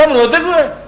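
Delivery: high questioning voice. Retold or imitated. Caravan leader asks crying boy.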